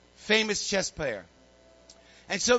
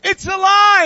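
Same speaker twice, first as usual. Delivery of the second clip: high, drawn-out full shout; excited yell; 13 semitones higher, 14 dB louder, much slower than usual. Acted. Chess master yelling to the group from another room, excited yell. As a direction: yell it out at the top of your voice. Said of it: "He's yelling".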